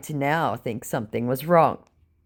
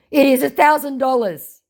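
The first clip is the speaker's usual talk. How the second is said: higher, louder put-on scammer voice; mock scammer voice; 11 semitones higher, 5 dB louder than usual. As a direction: state the price like a smug scammer. Scammer's price quoted.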